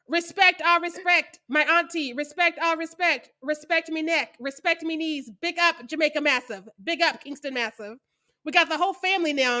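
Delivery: lightly put-on Jamaican accent, slow; bad Jamaican accent. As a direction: read it in a hammy Jamaican accent. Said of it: "in his bad Jamaican accent".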